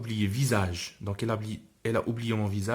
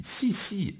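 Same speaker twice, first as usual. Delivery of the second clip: lightly voiced little girl; 9 semitones higher than usual. Little girl answers father.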